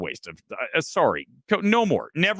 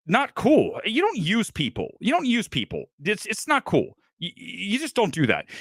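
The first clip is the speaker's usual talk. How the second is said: higher, insistent scolding of someone who uses people; heated scolding; 5 semitones higher than usual. Real, not acted. Host lecturing Gore about using people, heated. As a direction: wag the finger, repeating it.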